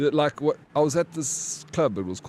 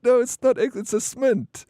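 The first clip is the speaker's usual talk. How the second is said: put-on much higher, squeaky girly voice; mocking the girls; 12 semitones higher, 4 dB louder than usual. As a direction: mimic the giggling girls correcting him. Voicing the laughing girls.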